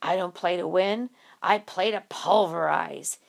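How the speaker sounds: a hint of a tough movie muscle guy; gravelly growl. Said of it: "dropped his voice to a gravelly growl".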